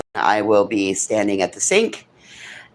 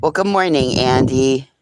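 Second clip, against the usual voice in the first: cheery greeting; 2 semitones higher, 4 dB louder than usual. Real, not acted. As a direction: greet him brightly like you're thrilled. Greeting the dog Andy.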